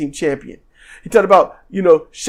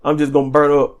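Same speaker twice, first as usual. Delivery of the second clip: mock resignation; 5 semitones lower, faster than usual. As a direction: shrug it off in a low voice. Burning man resigned to his fate.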